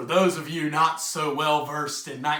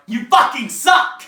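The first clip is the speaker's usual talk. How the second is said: louder, higher jab at yourself; self-mocking jeer; 4 semitones higher, 7 dB louder than usual. Summing up his life's story for the audience, self-mocking jeer. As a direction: punch out the cruel verdict. Quotes the verdict on his life.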